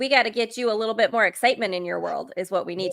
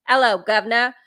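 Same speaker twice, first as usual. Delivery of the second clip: put-on cheesy American take on a British accent, a bit louder; mock British accent; 5 dB louder than usual. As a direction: toss off a cheap mock-Cockney greeting. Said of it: "I don't think I can just throw in a".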